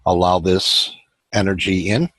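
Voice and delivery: measured meditation guide, long pauses between phrases; even, unhurried meditation voice; guided meditation. Acted. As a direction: guide listeners inward, leaving space after each phrase.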